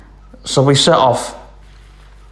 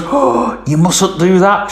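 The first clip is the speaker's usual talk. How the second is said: farmer's wife; 6 semitones higher, slower than usual. Retold or imitated.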